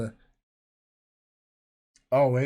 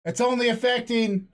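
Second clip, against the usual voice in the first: higher, projected to the next room; raised voice; 5 semitones higher than usual. Retold or imitated. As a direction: call the figures through the wall. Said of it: "that's why I raised the voice".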